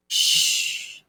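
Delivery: drawn-out hushing hiss; long shush. Acted. Game character silences Nick's question, long shush. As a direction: cut them off with a long shush.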